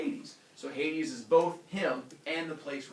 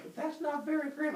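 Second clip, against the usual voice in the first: mock complaint; 13 semitones higher than usual. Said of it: "They're like".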